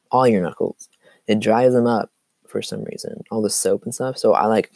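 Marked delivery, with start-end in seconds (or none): 0.0-0.9 laughing through the words; amused, say it with a laugh. Real, not acted. Repeats phrase, then laughs.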